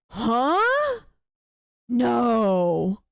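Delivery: high, sharp mock disbelief on Huh, then a flat No; incredulous disbelief. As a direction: imitate friends who can't believe it. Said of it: "they were just like".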